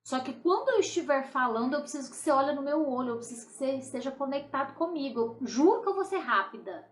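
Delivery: quick, lightly acted plea to a partner; quick appeal. Wife asking her husband to listen, hurried appeal. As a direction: rattle off the request in one go. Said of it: "vou falar rápido".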